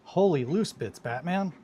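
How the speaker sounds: high, loud mock Robin exclamation; hammed-up comic-book sidekick cry. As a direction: belt it like Robin gasping at Batman. Robin-style exclamation of a chat name.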